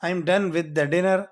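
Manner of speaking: very slow, spelt out; slow model sentence. Shown as a demonstration. Teacher modelling the dinner phrase for students, slow. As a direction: lay each word down for learners. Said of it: "اس طرح آپ کہہ سکتے ہیں".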